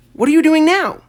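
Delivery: put-on eager kid pestering questions; a nosy little boy; curious boy voice. A narrator's reading.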